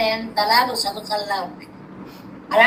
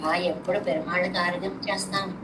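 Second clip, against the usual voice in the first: softer, lower, reverent wish; devotee's reverent longing; 4 semitones lower, 6 dB quieter than usual. Retold or imitated. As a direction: hush it like a devotee longing to offer. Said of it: "అనిపిస్తుంది భక్తులకి".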